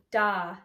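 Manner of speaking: DA drawn out, not clipped; long note. Shown as a demonstration. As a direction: give "da" the full value of a nice long note. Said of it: "nice long note".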